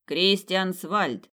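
very slow, grand proclamation of the name; butler announcing. Acted. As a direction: draw out the name for the whole ballroom. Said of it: "а потом огласил".

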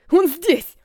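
loud, high panicked cry; terrified shout. A narrator's reading. Prisoner sensing the evil arrive, loud terrified cry. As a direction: scream the warning in terror. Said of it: "закричал Джек".

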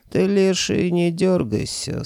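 slow, high stern rebuke; stern warning. A narrator's reading. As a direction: warn him firmly. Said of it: "строго сказал Михалыч".

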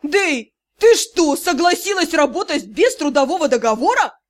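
a loud outraged roar, peaking on «ты что». Acted. Drow roars at Dei over her missing contract, loud. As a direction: bellow it in disbelief. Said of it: "и взревел".

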